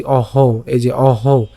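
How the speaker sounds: অহ said on its own; syllable demo. Shown as a demonstration. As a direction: isolate the অহ. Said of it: "কি উচ্চারণ করছি".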